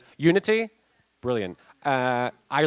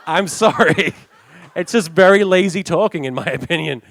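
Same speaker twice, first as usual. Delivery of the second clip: loud, higher American accent with lazy speech; 6 semitones higher, 9 dB louder than usual. Shown as a demonstration. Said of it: "being very lazy with my speech patterns".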